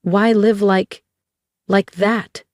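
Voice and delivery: pleading with a slight crack. A narrator's reading. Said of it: "her voice cracking".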